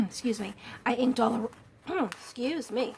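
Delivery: hoarse, clearing throat; losing her voice. Real, not acted. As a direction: voice giving out, throat catching. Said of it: "I feel like I'm losing my voice".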